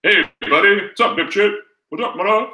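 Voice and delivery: razz your pal as you pick up; best friend greeting. Retold or imitated. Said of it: "when you have your best friend call you".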